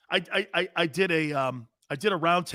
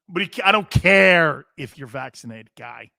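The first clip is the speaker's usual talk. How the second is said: heated shout; 7 dB louder than usual. Real, not acted. Ranting at Aaron Rodgers.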